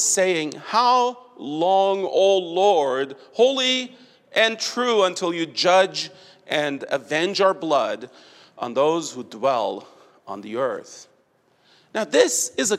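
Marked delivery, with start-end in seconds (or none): 0.7-11.1 solemn plea fading. Retold or imitated. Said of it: "cried out with a loud voice".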